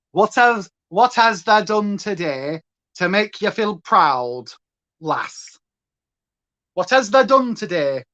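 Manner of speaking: slow Yorkshire Barnsley dialect; lightly done Barnsley voice asking; Barnsley accent. Pretend. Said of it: "you've got to do a proper Barnsley".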